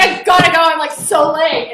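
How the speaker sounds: high, loud, frantic excuses; flustered rush. Retold or imitated. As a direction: hurry out in a panic, half in tears.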